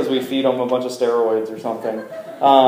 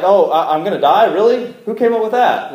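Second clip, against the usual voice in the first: hammed-up disbelief, rising higher; mock surprise; 3 semitones higher than usual. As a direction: act as if it's news to you. Mock surprise at coming death.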